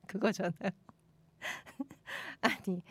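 usual speaking voice

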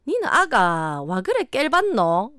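slow, drawn-out Gyeongsang dialect; 경상도 사투리. Shown as a demonstration. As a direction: read the line with swooping Gyeongsang intonation. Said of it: "이거 완전 네이티브가 됐죠?". (길게 늘이는 경상도 사투리 억양)

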